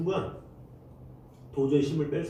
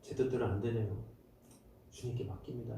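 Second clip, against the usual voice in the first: much softer, lower letting go; resigned surrender; 5 semitones lower, 10 dB quieter than usual. Retold or imitated. Preacher voicing a tired parent handing the child to God, soft. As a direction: sigh it out to God. Giving up prayer.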